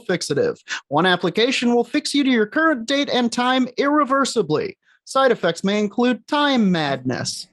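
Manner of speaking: upbeat ad read, sinister undertone; cheerful ad with eerie menace. Acted. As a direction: sell it bright with creepy menace. Parody ad read for Time Fixative.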